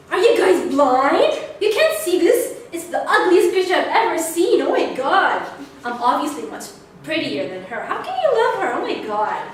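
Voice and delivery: loud, high, indignant disbelief; outraged kid. Retold or imitated. Jealous girl telling family the baby is ugly, loud and outraged. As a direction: protest like a scandalised child.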